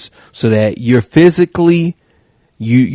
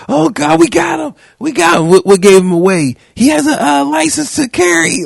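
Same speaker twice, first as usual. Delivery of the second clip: much higher, shrill-free squeaky mocking panic; mock panicked cop. Host mocking panicking officer on shoulder radio, high mock panic. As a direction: ham up a frantic officer who thinks she caught a killer. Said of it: "So she just revved up".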